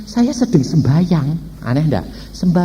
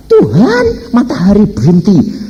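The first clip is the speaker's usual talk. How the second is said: Joshua; 5 semitones higher, 4 dB louder, slower than usual. Retold or imitated. Voices Joshua commanding the sun.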